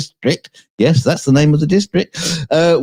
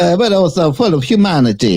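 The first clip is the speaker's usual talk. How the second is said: put-on Italian accent; 6 semitones higher than usual. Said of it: "I forgot to do the Italian accent".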